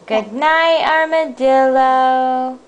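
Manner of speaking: drawn-out, slightly high goodnight; storybook goodnight. Acted. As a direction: stretch out the animal's name. Saying goodnight to story animal.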